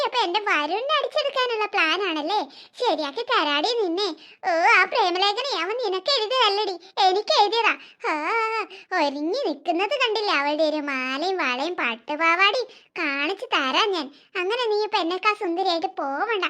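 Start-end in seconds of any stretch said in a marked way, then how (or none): 2.8-4.1 mock threat. Jealous girl plots against rival. 10.4-14.1 scheming threat. Acted. Jealous girl plots against rival.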